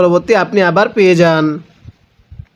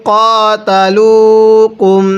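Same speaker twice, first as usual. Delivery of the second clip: slow, drawn-out Quranic chant; measured tajweed recitation; 3 dB louder, much slower than usual. Shown as a demonstration. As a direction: recite each word slowly and melodically.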